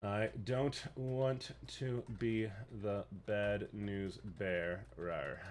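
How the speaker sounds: hushed movie-trailer intro; dramatic hush. Acted. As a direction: breathe it out like a trailer voice. Hushed dramatic line before clip.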